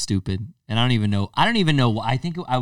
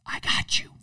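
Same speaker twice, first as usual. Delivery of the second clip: soft unvoiced I got you; quiet gloating whisper; whispered gotcha; 6 dB quieter than usual. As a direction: breathe it like a secret win.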